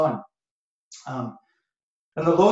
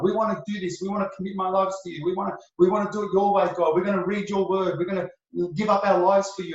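eager pledging; 4 semitones higher, faster than usual. Acted. Acting believers' eager promises to God.

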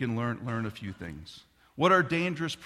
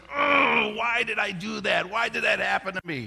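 loud, high frustrated outcry; frustrated cry; 8 semitones higher, 5 dB louder than usual. Shown as a demonstration. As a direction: vent at yourself, mock-despairing. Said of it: "groan of frustration".

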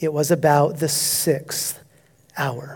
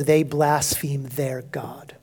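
slow, unvoiced whisper; grave whisper; 3 semitones lower, 5 dB quieter, slower than usual. Real, not acted. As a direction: breathe it out slowly in dismay. Grave sermon point.

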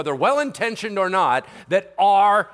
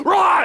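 sudden high, loud viper roar; mock snake lunging with a "rah"; short explosive creature yell; attack roar; 11 semitones higher, 7 dB louder than usual. Viper strikes in retelling.

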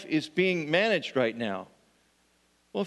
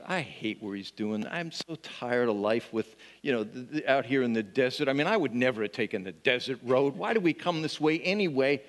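grumbling; 4 semitones lower than usual. Retold or imitated. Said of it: "their hearts are just".

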